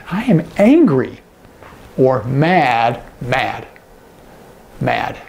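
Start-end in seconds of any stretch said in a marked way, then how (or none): 0.1-1.2 emphatic, higher-pitched demo of anger; mock anger. Shown as a demonstration. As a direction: act out being angry, punching the word. Acts out the sign angry.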